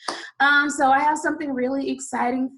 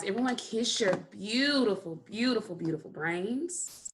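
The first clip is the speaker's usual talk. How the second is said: tender praise; 5 dB quieter than usual. Real, not acted. Praising children, fading.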